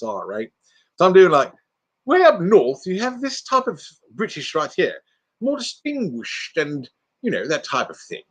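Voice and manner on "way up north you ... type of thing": mock northern British accent, distinguished; made-up northern British. Shown as a demonstration. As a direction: demo a fake, refined British northerner. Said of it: "I've got a northern accent".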